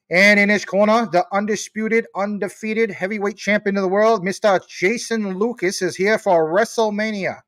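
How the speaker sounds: high, booming fight introduction; hammed-up announcer building up the champion; ring announcer. Host introducing Jason Lucas for WrestleMania, ring-announcer voice. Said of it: "That voice doesn't even sound like a ring announcer".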